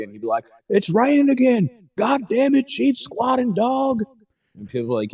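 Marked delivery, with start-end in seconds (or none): 0.7-4.0 higher, hammed-up Southern accent, grouchy; grumpy Southern accent. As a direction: sneer it like a cranky Southern guy. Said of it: "one Southern guy that hates everybody".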